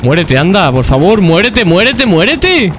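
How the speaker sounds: begging the enemy to finally die; exasperated pleading. Real, not acted. (súplica exasperada creciente)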